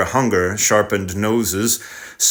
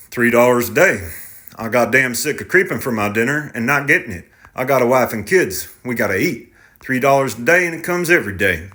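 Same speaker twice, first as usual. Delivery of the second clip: lightly voiced stubborn young driver; defensive, a bit raised; tractor driver voice; 2 semitones higher than usual. Tractor driver defends his wage.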